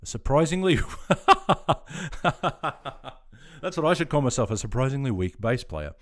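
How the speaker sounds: high, loud laugh breaking through the words. Real, not acted. Streamer laughs at a viewer's joke about him, laughing. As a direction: laugh it out, tickled by the comment.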